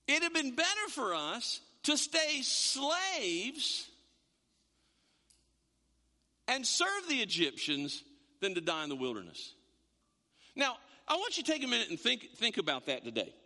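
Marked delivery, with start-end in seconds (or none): 0.1-9.5 slow, falling mock complaint of the Israelites; lightly voiced weary complaint; slow mock lament. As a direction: drag it out like a grumbling slave. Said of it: "then they say this".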